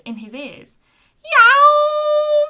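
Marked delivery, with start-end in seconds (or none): 1.2-2.4 loud high-pitched roar. A narrator's reading. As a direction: bellow it out in a panic. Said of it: "roared Orinoco".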